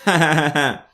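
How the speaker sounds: mock jeering laugh. Mocking laugh on co-host's request.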